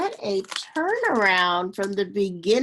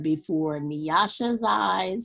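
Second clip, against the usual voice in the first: steady storybook reading voice; story narration. A narrator's reading. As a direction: read it like a children's picture book. Reads a picture book aloud.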